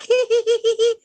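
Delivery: high tittering hee hee; mock girly giggle. To the guy telling a joke, high girlish giggle. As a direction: giggle high and light like a flattered woman. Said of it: "a woman's like".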